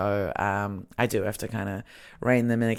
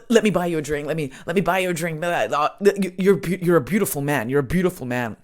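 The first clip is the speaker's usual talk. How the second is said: hammed-up drunken old Scotsman accent, tumbling repeats; 4 semitones higher, 5 dB louder, faster than usual. Old Scotsman offers my friend a drink, hammed-up Scottish accent. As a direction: imitate a rambling Scottish old man. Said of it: "this old Scotsman is just going".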